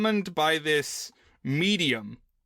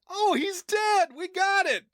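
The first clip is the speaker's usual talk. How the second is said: casual. Retold or imitated. Kids casually shrugging off death.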